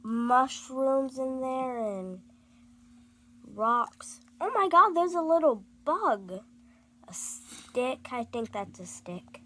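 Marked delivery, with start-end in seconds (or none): 4.4-6.4 surprised. Real, not acted. Child spots a bug.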